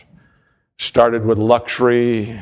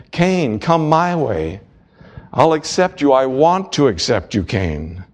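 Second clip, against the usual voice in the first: God pleading; 3 semitones higher than usual. Acted. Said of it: "God is saying to him".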